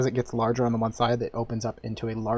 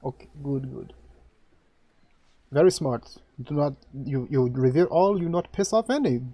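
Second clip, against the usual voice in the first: lightly voiced priest in broken trade language; halting foreign priest; 3 semitones higher than usual. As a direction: speak as a curt, halting priest.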